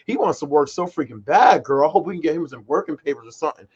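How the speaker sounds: playing the store lady telling his mom about him; gossiping customer service lady. Store lady gossips to his mom about him, excited. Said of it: "She's just like".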